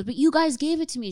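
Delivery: imitating her disbelief; high mock protest. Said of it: "And she goes".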